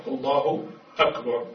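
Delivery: الله, then أكبر with a clear glottal stop; short vowel and single r in أكبر; carefully separated الله أكبر; correct form. Shown as a demonstration. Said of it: "وإنما الصحيح".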